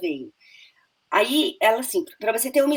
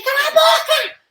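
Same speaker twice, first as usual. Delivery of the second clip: in-character shout. Retold or imitated. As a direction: yell it like a character losing it. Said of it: "Eu falei". (grito de personagem, agudo e lento)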